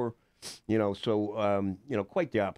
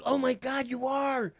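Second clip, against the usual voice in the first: imitating amazed girl; slower than usual. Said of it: "She goes".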